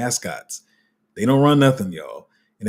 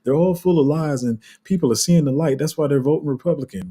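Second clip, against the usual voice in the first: smug Republican; 6 semitones higher than usual. Retold or imitated. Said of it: "They're gonna be like".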